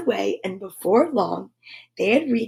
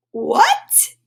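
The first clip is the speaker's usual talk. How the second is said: mock surprise. Mock shock at the emu.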